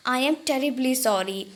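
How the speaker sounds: slow, careful pronunciation demo; Hindi: धीरे, साफ़ उच्चारण का नमूना; slow pronunciation model. Shown as a demonstration. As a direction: show them how to pronounce it. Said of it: "आप देख लीजिए इसे कैसे प्रोनाउंस करना है".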